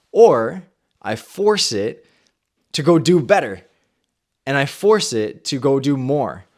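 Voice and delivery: determined build; forceful declaration. Retold or imitated. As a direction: push it out with resolve. Resolving to push body harder.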